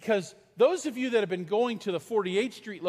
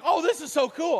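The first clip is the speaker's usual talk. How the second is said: high, louder gushing delight; excited; 9 semitones higher, 5 dB louder than usual. Retold or imitated. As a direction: gush like a kid who just saw it. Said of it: "I'm like".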